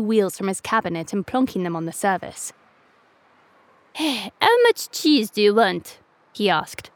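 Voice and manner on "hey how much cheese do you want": slow, gruff grumbling rat; grumpy rat. A narrator's reading. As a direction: grumble at the customer.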